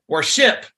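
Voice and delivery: Worship said with the second syllable stressed, rising at the end; stress on SHIP. Shown as a demonstration. Teacher flips the stress to test the word. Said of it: "And then I go".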